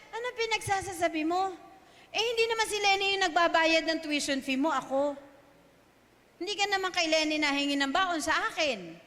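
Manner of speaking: fast, mildly irritated scolding; mother scolding her child, a touch of mock annoyance; annoyed mother. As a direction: rattle it off like a fed-up mother. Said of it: "nainis yung nanay".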